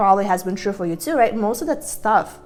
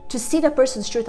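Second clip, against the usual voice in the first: hyped up. Real, not acted. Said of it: "I'm sorry, I'm getting fired up again".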